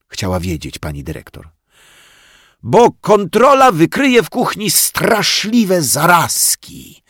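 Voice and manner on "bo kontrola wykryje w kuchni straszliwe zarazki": high, slow, eager storytelling; eagerly fired up. Acted. Zosia eagerly explains to the headmistress, fired up. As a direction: get carried away with the idea. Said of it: "zapaliła się Zosia".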